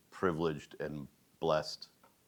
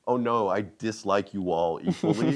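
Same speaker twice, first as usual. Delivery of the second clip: mock-grumpy canned answer, louder and higher; gruff teacher act; 5 semitones higher, 7 dB louder than usual. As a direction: play at disliking them, for laughs. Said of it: "it's a character, it's an act".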